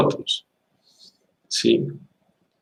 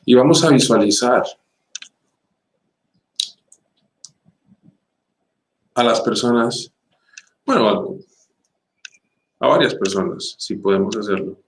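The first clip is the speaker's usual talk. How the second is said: guided meditation. Acted. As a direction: ease listeners into breathing calmly. Leads a meditation.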